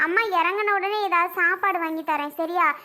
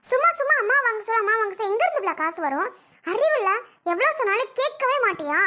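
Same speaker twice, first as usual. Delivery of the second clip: scolding mother; 3 semitones higher than usual. Acted. Mother scolding nagging child.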